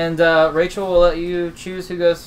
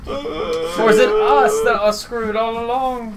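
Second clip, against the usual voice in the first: slow ominous narrator; 3 semitones higher, much slower than usual. Pretend. Ominous rhetorical question.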